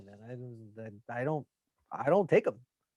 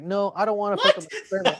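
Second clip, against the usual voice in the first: laughing; 3 semitones higher, faster than usual. Retold or imitated. Retold thought, laughing at himself.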